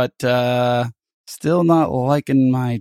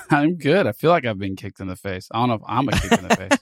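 stuffy, blocked-nose voice; talking through a blocked nose; nasal voice. Real, not acted. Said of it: "you sound a bit nasal today".

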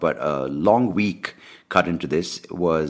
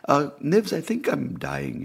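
politely scared; 10 semitones higher, slower than usual. Retold or imitated. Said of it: "very politely, I'm like".

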